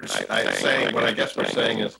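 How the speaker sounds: garbled, warbling line feedback; muffled wah wah talk. Real, not acted. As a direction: voice distorted like Charlie Brown's teacher. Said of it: "It sounds like the teacher in Charlie Brown".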